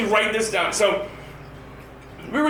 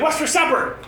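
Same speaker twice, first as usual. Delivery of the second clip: put-on higher, cheerful little-girl voice; sweet little girl; 5 semitones higher than usual. Daughter asking dad about supper, high and cheerful. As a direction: chirp it like a happy four-year-old. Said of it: "All nice and happy".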